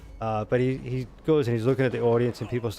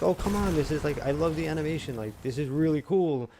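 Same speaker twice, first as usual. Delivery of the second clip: higher, eager protest; mock pleading; 6 semitones higher than usual. Dad retells begging his daughter to keep watching, eager. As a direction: talk her into letting you stay.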